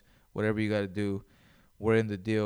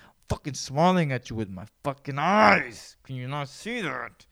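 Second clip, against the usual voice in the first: exasperated outburst; 3 semitones higher, 6 dB louder than usual. Acted. Frustrated that smile unseen.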